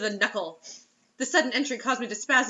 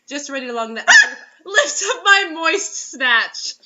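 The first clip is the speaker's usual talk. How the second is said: giggling through the line; 4 semitones higher, 10 dB louder than usual. Real, not acted. Host reading the sex scene, breaking into laughter. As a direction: fight back the giggles.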